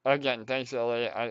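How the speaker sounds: out of breath, laughing. Real, not acted. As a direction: talk while catching your breath. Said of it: "give me a minute to catch my breath".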